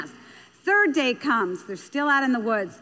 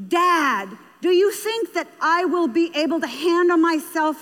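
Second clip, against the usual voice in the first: raised, insistent questioning of a parent; earnest appeal; 2 semitones higher than usual. Acted. Child asking Dad and Mom for belief, earnestly insistent. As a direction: press each question as a child needing an answer.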